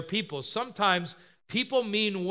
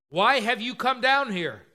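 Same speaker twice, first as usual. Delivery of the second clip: higher, irritated demand; mildly angry challenge, pitched up; irritated older brother; 5 semitones higher, 4 dB louder than usual. Acted. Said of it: "He's irritated with him".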